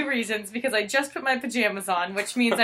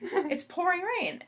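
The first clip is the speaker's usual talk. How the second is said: mock complaint; 9 semitones higher, 5 dB quieter than usual. Herself complaining, retold.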